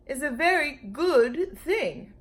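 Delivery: lightly voiced wise dinosaur; slow dinosaur voice. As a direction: ponder it slowly like a big beast. Brontosaurus voiced in story.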